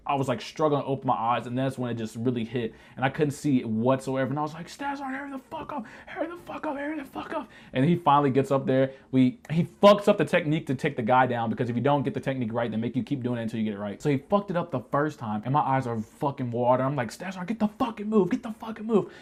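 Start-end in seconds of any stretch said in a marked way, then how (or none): 4.7-7.5 very high, strained yell held back in volume; softly squealed imitation of panicked screaming; mock screaming. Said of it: "I just started screaming". 17.1-19.1 high-pitched retold plea to hurry; high, desperate mock holler; mock frantic yelling. Retelling his panicked yelling at sergeant.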